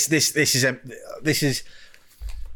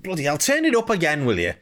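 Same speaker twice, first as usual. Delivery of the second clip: higher-pitched grumbling viewer, hammed-up; mock exasperation; 4 semitones higher than usual. Viewer asking for more TV volume, mock exasperated. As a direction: imitate someone fed up with straining to hear. Acts out annoyed viewer straining to hear.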